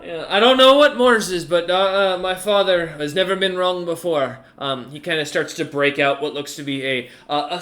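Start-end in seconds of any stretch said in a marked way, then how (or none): 0.1-4.4 a touch of amusement, in character; slightly raised, lightly played commander voice; lightly voiced commander. Game master plays Little D.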